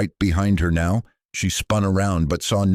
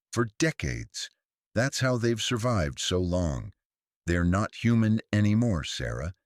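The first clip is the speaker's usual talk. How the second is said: a hint of a stern old priest, a little higher; lightly voiced elderly priest; 6 semitones higher than usual. Elderly priest warns Sarah over the phone, lightly voiced. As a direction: warn her, firm and fatherly.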